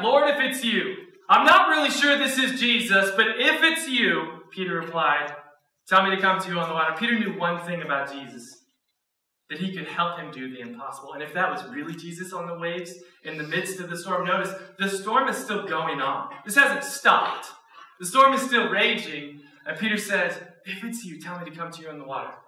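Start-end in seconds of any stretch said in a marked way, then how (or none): 0.0-6.9 eager Peter. Acted. Peter blurting out his request. 20.7-22.3 quiet Peter. Acted. Peter's request retold quietly.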